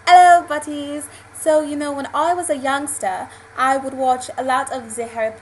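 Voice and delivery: British attempt sliding into French accent; slipping into French accent. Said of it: "again with the French accent".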